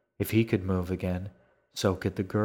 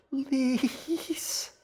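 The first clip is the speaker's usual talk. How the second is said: a high, strained, gasping please; gasped plea. Acted. Dying girl gasps to G, high and strained. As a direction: force the word out through a broken jaw. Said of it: "she gasped".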